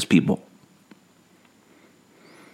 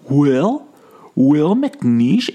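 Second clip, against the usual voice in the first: high, louder call of a name; 8 semitones higher, 4 dB louder, much slower than usual. Retold or imitated. Calling after Will while the couple watches, high call. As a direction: call after him, hopeful. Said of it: "The couple saw me go".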